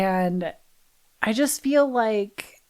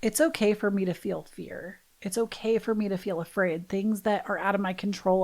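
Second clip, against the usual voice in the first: soothing self-talk; 4 dB quieter than usual. Retold or imitated. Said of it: "I just laid down with myself and I said".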